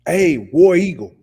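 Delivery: loud, slow cheer of Hey, War Eagle; hammed-up rival fan shout; mock Auburn fan cheer. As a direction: belt it like a fan in the stands. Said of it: "jump ship and be like".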